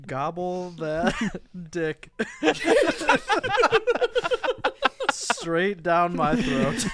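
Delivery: laughing. Real, not acted. Laughing through crude line.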